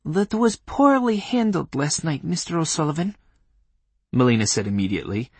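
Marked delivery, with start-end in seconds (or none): 0.0-3.2 put-on Polish accent. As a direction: scold in a stern Polish accent. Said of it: "in a Polish accent".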